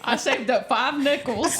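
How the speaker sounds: granny telling a story. Pretend. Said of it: "You do sound like a granny telling a story".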